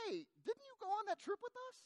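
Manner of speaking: high, puzzled mock-innocent question. Asking the lady at her house about the trip, high puzzled question. Pastor acts out asking friend.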